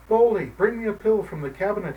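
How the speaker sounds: put-on sick old man calling his dog. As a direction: call out to the dog from bed, sick. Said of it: "he said".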